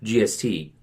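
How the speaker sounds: playing a shocked customer reading the bill; mock disbelief. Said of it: "and then it goes".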